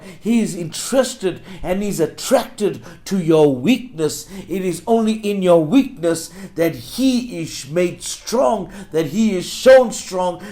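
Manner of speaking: rhythmic, insistent pulpit repetition; building preaching. Real, not acted. Preacher tells congregation God works through weakness, building preaching. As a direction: build phrase on phrase, punching the key words.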